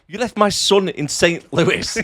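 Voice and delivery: high, slow line broken by laughter; laughing quote. Retold or imitated. Eddie piping up about his son, high and laughing. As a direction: giggle through the complaint. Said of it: "Eddie pipes up in the background and goes".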